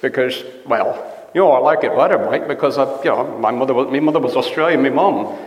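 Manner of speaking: casual put-on Australian accent; Australian twang, easygoing. Shown as a demonstration. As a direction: chat in a broad Australian accent. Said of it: "is the Australian accent".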